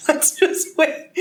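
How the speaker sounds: a high, breathy, laughing whisper, slow. Retold or imitated. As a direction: giggle it out, half-whispered. Teasing students in retold scene.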